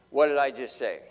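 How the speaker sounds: wife catching him. Retold or imitated. Wife catches him not listening.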